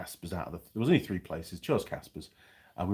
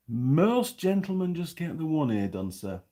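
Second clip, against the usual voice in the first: high, slow, polite shop-lady voice; imitated pharmacy lady; 7 semitones higher, slower than usual. Pharmacy lady to a ponytailed customer, imitated polite voice.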